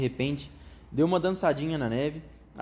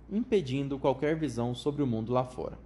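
ordinary delivery, nothing marked

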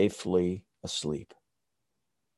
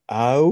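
1 wolf howl; 3 semitones higher, 6 dB louder than usual. Retold or imitated. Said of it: "almost a song he is singing".

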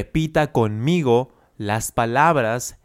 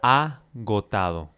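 slow model word. Shown as a demonstration. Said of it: "Nuestra primera palabra es agotado".

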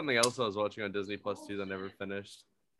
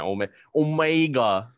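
disgusted name; 2 semitones higher, 8 dB louder, slower than usual. Retold or imitated. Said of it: "her accent".

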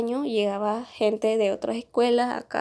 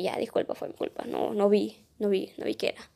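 whispered, sheepish apology; quiet apology; 6 dB quieter than usual. Retold or imitated. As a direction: say sorry barely voiced, almost under your breath. Apology after a fight, retold.

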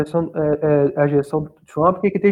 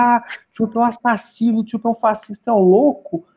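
higher-pitched imitation of frantic accusers; mock desperation; 5 semitones higher than usual. Imitating American YouTubers ranting about Trump, mock desperate. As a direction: parody their panic, pitched up. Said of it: "os caras tudo desesperado".

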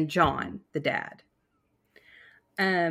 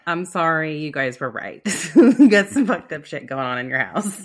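Englishman apologizing; 8 dB louder than usual. Retold or imitated. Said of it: "He's like".

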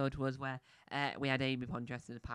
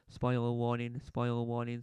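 slow; much slower than usual. Acted.

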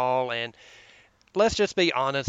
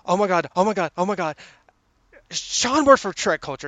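mild fanboying; 4 semitones higher, 4 dB louder than usual. Retold or imitated. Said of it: "going in there fanboying to my wife".

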